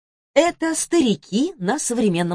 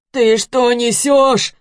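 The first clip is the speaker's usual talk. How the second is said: groaning; 5 semitones higher, 6 dB louder, much slower than usual. A narrator's reading. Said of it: "простонал тот".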